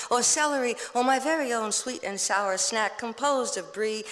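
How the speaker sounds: quick, lively list-like poem recital; poem reading. Acted. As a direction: rattle off the cravings with relish. Poetry reading.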